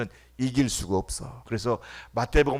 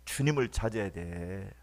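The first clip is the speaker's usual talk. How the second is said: ordinary talk, nothing marked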